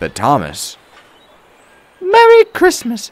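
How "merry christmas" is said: put-on high, loud young woman's greeting; kindly. A narrator's reading. Young woman greets Thomas in his shed, kindly. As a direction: greet him kindly in a high, bright ring. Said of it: "she said kindly".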